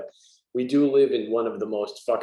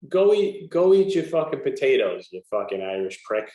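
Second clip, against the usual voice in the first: mock bigot insult. Shown as a demonstration. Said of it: "Ready? Watch this".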